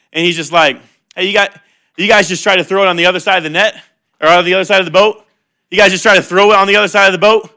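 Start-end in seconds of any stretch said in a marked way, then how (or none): 1.1-7.5 smirking advice. Retold or imitated. Jesus ribbing tired fishermen from shore, smirking and quick. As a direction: toss the tip off with a smirk. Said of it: "he's smirking a little bit".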